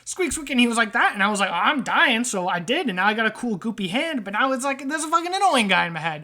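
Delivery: exasperated wiseguy rat; annoyed rat trader. Acted. Rat blaming visitor for the guy in his head, annoyed. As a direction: rattle off a rat's grievance. Game master voices rat character.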